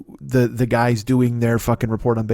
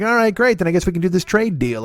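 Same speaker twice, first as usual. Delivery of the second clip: mock German guest; 5 semitones higher than usual. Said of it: "And he's like".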